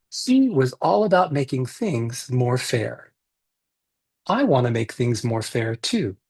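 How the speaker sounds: put-on reading a picture book aloud to kids; gentle read-aloud for a virtual story circle; story narration.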